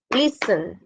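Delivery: listen with a strong LIS and falling end; LISten, second syllable let fall; stress on first syllable. Shown as a demonstration. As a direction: lean on the start of listen. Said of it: "como que es más alto".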